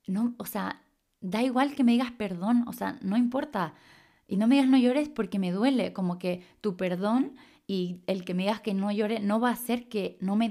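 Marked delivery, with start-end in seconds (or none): 0.1-5.9 upset reply. Retold or imitated. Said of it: "que yo le digo".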